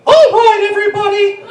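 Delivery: high, loud shouting mouse; Mickey yelling at kids in the pit; ranting Mickey Mouse. Pretend. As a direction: rant like a fed-up Mickey. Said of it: "here's Mickey in the crow's nest".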